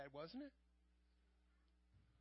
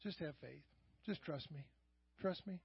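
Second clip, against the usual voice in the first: gentle; 3 semitones lower, 6 dB quieter than usual. Retold or imitated. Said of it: "When he says that very gently".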